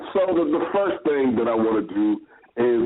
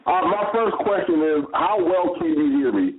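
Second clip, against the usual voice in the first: thin speakerphone sound. Real, not acted. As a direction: talk through a speakerphone. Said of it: "sounds like you're on a speakerphone".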